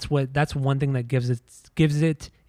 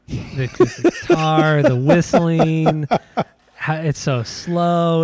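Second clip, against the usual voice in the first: mocking; 2 semitones higher, 5 dB louder, slower than usual. Mocking a band's song.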